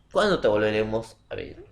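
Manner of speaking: "cuándo te volveremos a ver" asked with a rising end; direct question. Shown as a demonstration. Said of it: "vas a preguntar".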